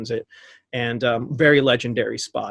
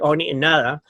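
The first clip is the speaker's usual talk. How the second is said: lightly imitated Cockney; a touch of little Cockney accent; faster than usual. Singer on the mic wanting a drink, light Cockney accent. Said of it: "in that little Cockney accent".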